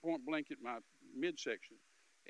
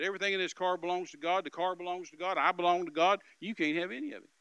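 firm declaration; 4 semitones higher, 9 dB louder than usual. Retold or imitated. Telling robber all is God's.

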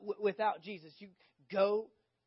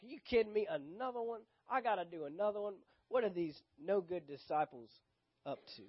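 irritated muttered grumble, fading away; Jesus. Acted. Jesus grumbles about his no-good disciples, irritated. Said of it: "irritated here. He's like".

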